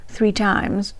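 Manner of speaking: reading the diary aloud in a light, put-on English accent. Reading Vivian's 1928 diary to viewers in an English accent. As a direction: channel the Queen, in an amateur English accent. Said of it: "We try it in an English accent".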